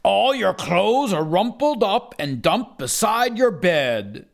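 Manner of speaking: a light hint of a scolding dad; dad's voice. Child quoting his dad, lightly dad-like. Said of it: "Do you know what he said?".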